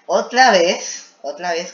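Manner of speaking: loud, slow, high groan of "otra vez"; a loud, drawn-out complaint about repeating himself; exasperated outcry. Real, not acted. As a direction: drag it out loud and high in disbelief. Exasperated at repetition.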